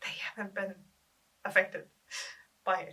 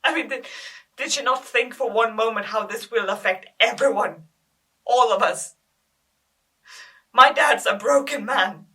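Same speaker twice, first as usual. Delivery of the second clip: loud, raised-pitch anguished rant; angry outburst; 3 semitones higher, 14 dB louder than usual. Acted. Girl raging at her dead sister for hurting the family, loudly angry. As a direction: hurl the accusation at full volume. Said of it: "I'm mad at my sister".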